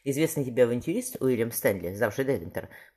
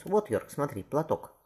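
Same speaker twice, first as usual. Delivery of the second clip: higher but unforced declamation; stage recital; 4 semitones higher, slower than usual. Acted. Shakespeare shows Paul the same line on stage, contained declamation. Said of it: "Уильям тебе то же самое скажет".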